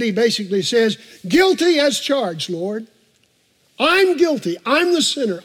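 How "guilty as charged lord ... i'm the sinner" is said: earnest confession. Retold or imitated. David confesses in the pastor's voice.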